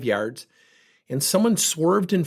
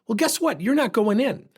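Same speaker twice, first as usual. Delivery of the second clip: sharp, high, sarcastic taunt; defiant challenge; 7 semitones higher than usual. Retold or imitated. Taunting the hurried driver at McDonald's, sharp and high. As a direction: dare him, voice up.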